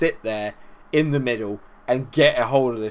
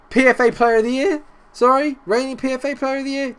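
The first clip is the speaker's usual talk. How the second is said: incredulous; 10 semitones higher than usual. Real, not acted. Mocking his player's error.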